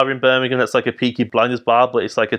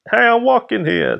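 high-pitched mock Brooklyn accent; 11 semitones higher than usual. Frenchman switches from French to a Brooklyn accent. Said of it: "like a Brooklyn accent and just be like".

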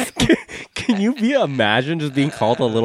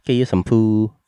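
put-on light Vietnamese-accented tour guide; lightly voiced Vietnamese tour guide. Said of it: "what happened to your accent?".

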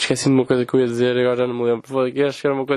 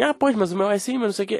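higher, interrupting chatter; mocking old lady; 6 semitones higher than usual. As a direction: parody a know-it-all pensioner. Mimics old people interrupting.

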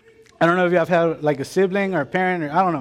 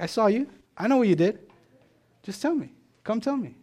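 higher, gentle coaxing voice as God; lightly voiced God inviting a confession; 5 semitones higher than usual. God to the hiding child, gently coaxing.

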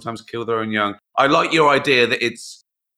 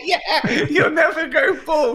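laughing; 3 dB louder than usual. Real, not acted. Joke about keeping his hair.

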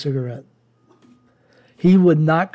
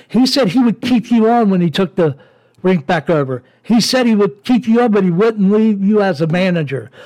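angry rant; 4 semitones higher than usual. Real, not acted. Cursing out the man who wronged his father, enraged. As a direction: let the anger boil over.

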